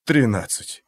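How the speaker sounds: hoarse exhale. Acted. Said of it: "сипло выдохнул Ингелстад".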